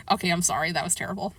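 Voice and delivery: soft, real chuckling apology; embarrassed laughing. Real, not acted. Reader apologizing for a terrible accent, quietly laughing. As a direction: laugh it off under your breath.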